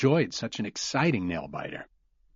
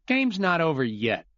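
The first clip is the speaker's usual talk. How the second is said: grumbled; 7 semitones higher than usual. Acted. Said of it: "Glenn grumbled".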